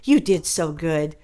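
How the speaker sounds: lightly voiced gentle teacher coaxing a child; a hint of a sweet teacher talking to Johnny. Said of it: "So later she goes".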